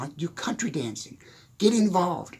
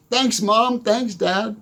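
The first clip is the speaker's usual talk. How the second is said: sarcastic thanks; 5 semitones higher, 5 dB louder, much slower than usual. Retold or imitated.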